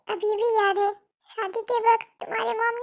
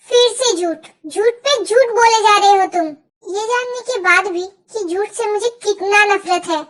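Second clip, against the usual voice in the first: loud, furious yelling about the lies; furious shout; 3 semitones lower, 8 dB louder than usual. Acted. Jungkook yelling at Jimin for lying again, furious. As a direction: blast her for lying again.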